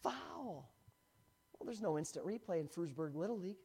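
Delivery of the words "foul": retold umpire call. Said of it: "He's yelling".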